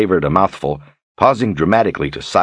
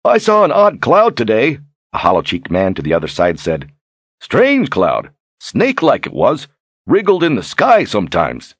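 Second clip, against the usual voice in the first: high, forceful rustic storyteller; hollow-cheeked villager; 6 semitones higher than usual. Acted. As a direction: report a strange sight to the table.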